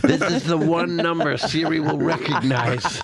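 put-on slow, trembling old man plea, laughing; weak whiny bedridden. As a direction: whimper like a helpless old man stuck in bed. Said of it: "This guy, Chris".

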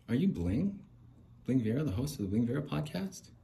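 high, rising questions; put-on surprise at spotting someone known; excited fan. Passer-by recognising the begging podcast host, play-acted excited fan.

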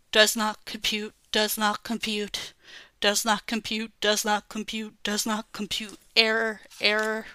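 mildly robotic monotone loop; a computer stuck repeating itself. Pretend. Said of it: "robotic chubs".

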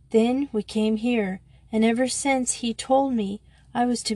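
put-on mildly tearful, gasping girl's pleading; a touch of dry sobs. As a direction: tell the story half-choked with tears. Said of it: "she finished with a little dry sob".

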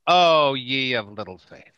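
a lightly voiced calm Jesus; hint of a biblical master. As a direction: say it like a gentle teacher chiding. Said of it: "He says".

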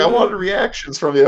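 high-pitched, exasperated retelling; mock complaint. Retold mock complaint to his wife.

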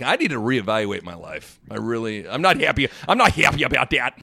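lightly voiced coach grumbling; a hint of a grumpy coach; Dana Altman impression. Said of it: "I drove home that night being like".

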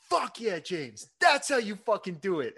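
high, loud boss cheering over the radio; walkie cheer. Retold or imitated. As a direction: hype him up like a proud boss. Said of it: "over the walkie for the entire crew".

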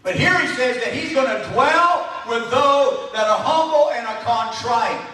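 emphatic preaching. Acted. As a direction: preach it to the congregation. Preaches with raised force.

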